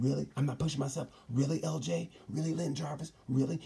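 indignant rider answering his boss; voicing Maverick, indignant. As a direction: play Maverick outraged at his team boss. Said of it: "Maverick said".

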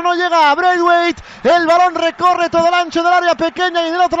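loud excited commentary; loud goal replay. Acted. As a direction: keep the energy up describing the goal.

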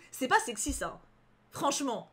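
ordinary delivery, nothing marked

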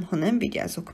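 plain reading voice

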